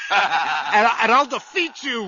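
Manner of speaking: loud, fast defiance; defiant shout. Acted. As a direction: shout him down. Brother defies ghost.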